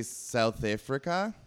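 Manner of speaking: attempted South African accent on the country's name. Shown as a demonstration. Showing off the one phrase they can do, South African accent. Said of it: "only thing I can do with that accent".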